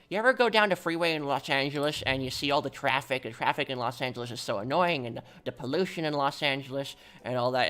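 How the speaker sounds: lightly voiced grumbling old man; a hint of an old-timer complaining about traffic; mild old-man grumble, rambling on; old person's voice. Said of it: "I would do an old person's voice".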